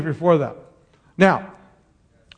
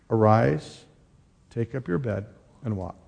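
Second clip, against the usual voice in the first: solemn command; 6 semitones lower, 6 dB quieter than usual. Acted. Jesus commanding.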